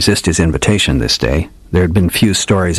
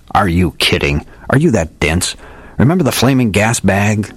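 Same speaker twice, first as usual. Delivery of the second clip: lightly voiced old detective, a bit higher, grand and theatrical; hardboiled old detective; 4 semitones higher than usual. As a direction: play the old gumshoe spinning a dramatic yarn. Old detective tells his tale.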